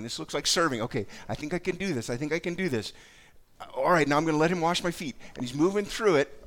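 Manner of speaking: lightly voiced, keen disciple thinking aloud; eager Peter's inner voice. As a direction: play Peter getting excited, step by step. Voicing Peter's eager thoughts.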